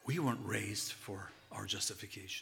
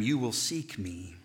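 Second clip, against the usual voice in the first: much louder, slow final words; preaching climax; 6 dB louder, slower than usual. Acted. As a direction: proclaim it to the back row. Loud preaching peak.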